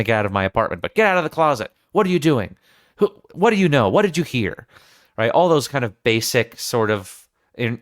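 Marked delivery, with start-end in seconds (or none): 0.9-4.7 threatening demand. Acted. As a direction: bark questions at the intruder in the closet. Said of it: "she doesn't say ... but".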